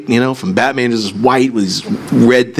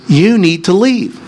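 slow, higher, mild-mannered imitation; Mister Rogers; 8 semitones higher, 3 dB louder than usual. Preacher mimics minister addressing screaming man, mild and slow. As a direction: politely draw out the request, imitating a gentle minister. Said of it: "in Mister Rogers' best voice".

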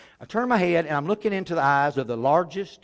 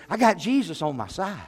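eager imitation, slightly raised pitch; excited teenager; 4 semitones higher than usual. Teenager telling the preacher his news, mildly excited. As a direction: retell it as a keen boy sharing news. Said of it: "seemed so excited about something".

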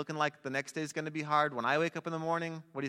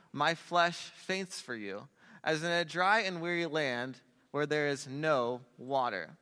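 scripture reading; slower than usual. Acted. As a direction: read the verse like a prayer. Reads Psalm aloud to congregation.

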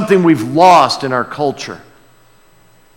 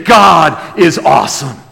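exclaimed praise; 4 dB louder than usual. Acted.

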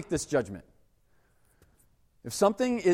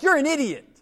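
scornful boss; 9 semitones higher, 5 dB louder than usual. Retold or imitated. Boss insulting him.

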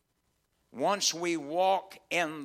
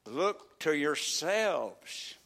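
slow solemn command; much slower than usual. Acted. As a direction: say "Look to yourselves" slowly and solemnly, trailing down. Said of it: "solemn slow command".

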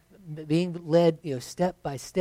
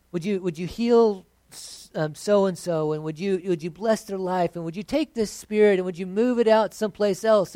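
mock fervent prayer; 3 semitones higher, 3 dB louder than usual. Preacher mocking how the church prays, pleading and rising. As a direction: imitate a believer begging God to fix everything. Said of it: "you go".

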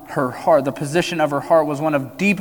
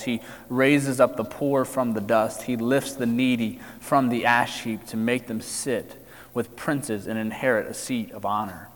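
measured, formal Bible reading; a preacher reading scripture aloud before the sermon. Acted. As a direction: read the passage aloud with weight.

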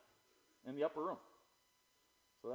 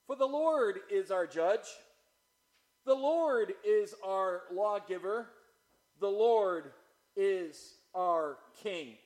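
loud, raised, slow scripture proclamation; forceful declaiming; 6 semitones higher, 10 dB louder, slower than usual. Acted. Preacher proclaiming Isaiah's verse, forceful slow declamation. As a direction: ring out each phrase with pauses between.

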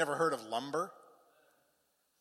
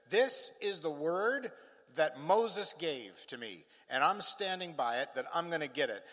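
slow, deliberate preacher's quote; emphatic declaration; 3 semitones higher, 5 dB louder than usual. Acted. Caleb claiming his promised land, a slow declaration. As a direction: declare the claim with measured conviction.

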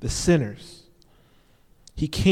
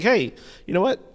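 higher, amazed recognition; mock-incredulous townsfolk; lightly voiced amazed villagers; astonished crowd; 5 semitones higher than usual. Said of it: "this is what they're saying".

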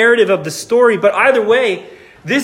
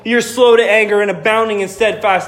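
accusing Jonah. Retold or imitated. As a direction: throw God's kindness back at him as a complaint. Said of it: "he's like".

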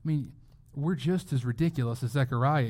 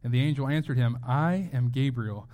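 scripture reading. Acted. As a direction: read the verses out with weight.

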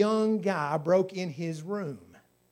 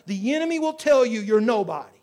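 building preaching; 4 semitones higher, 6 dB louder than usual. Real, not acted.

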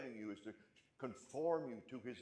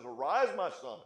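loud, raised proclamation; ringing command; 4 semitones higher, 11 dB louder than usual. Acted. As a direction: thunder it out as a divine summons. Father's command at sermon climax.

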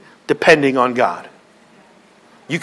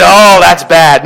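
friend's reply; 4 dB louder, slower than usual. Retold or imitated. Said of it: "They go".

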